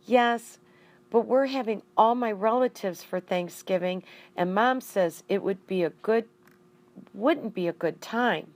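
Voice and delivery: put-on apologetic boy explaining; lightly voiced young boy; child's voice.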